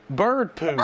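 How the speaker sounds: bright shout into laughter; kid's proud quote. Retold or imitated. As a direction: show it off proudly. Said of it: "He says".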